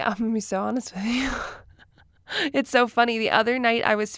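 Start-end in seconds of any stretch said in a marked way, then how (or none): 0.0-1.4 laughing whisper. Real, not acted. Laughing confession aside.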